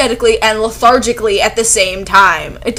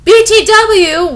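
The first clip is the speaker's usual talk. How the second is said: slow, loud shouted BTW; mock shout; 11 semitones higher, 8 dB louder, slower than usual. Reading the fanfic, a loud slow gushing BTW. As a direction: blurt it out like a breathless teen.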